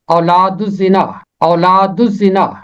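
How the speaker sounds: اولاد الزنا said with a silent lam, ولاد الزنا run into uzina; pronunciation demo. Shown as a demonstration. Teacher shows how to say اولاد الزنا. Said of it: "اور تلفظ ہے".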